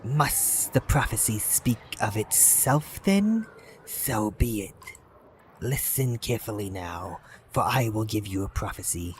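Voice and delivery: slow, whispered opening, then a measured serpent voice; lightly voiced giant serpent; ancient serpent. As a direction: speak as a patient, ancient serpent. Serpent speaks.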